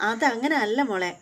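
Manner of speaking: slow, laughing denial; mother laughing off her daughter's teasing; laughing reply. Retold or imitated. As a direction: laugh it off gently.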